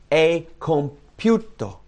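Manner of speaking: high, very slow and deliberate; solemn proclamation. Acted. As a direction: proclaim it with weight on each word. Proclaiming Jesus' last words.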